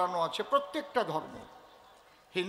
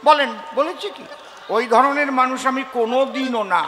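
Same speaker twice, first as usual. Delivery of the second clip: laughing protest; 9 dB louder than usual. Acted. Laughing mock-innocent protest to audience.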